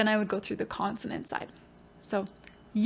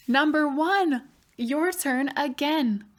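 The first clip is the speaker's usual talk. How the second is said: excited gasp; 5 semitones higher, 3 dB louder, slower than usual. Acted. Dice game reveal.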